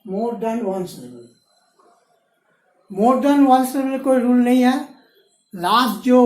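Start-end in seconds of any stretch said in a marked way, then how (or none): 0.1-1.3 very slow, word by word; slow dictation. Shown as a demonstration. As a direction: dictate it so students can write. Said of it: "teacher dictating term slowly".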